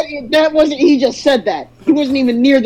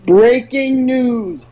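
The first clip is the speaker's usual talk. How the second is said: news anchor; much slower than usual. Acted. Mock news podcast intro.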